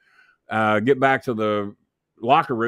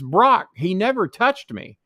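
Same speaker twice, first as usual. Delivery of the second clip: retold girlfriend plea; 10 semitones higher, 5 dB louder, slower than usual. Girlfriend pleading to Brock.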